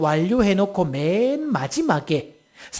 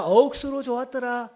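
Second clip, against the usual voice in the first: a light Gyeongsang lilt, pitched higher; Gyeongsang dialect; 4 semitones higher than usual. Shown as a demonstration. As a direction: lead the crowd in Gyeongsang dialect. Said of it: "경상도 버전 들어갑니다". (살짝 높은 경상도 사투리)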